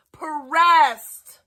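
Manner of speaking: breathy whispered jab; taunting whisper. Real, not acted. Streamer whispering a taunt at his rival. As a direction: hiss the word Pressed like a secret.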